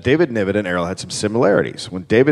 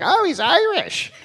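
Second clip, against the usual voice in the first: dumb American. Retold or imitated. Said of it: "everyone's like".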